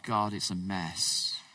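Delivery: murmured weary lament, slowing at the start; quiet lament. Retold or imitated. Preacher voicing a worshipper lamenting to God, hushed and weary. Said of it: "A lament is where you're saying to God".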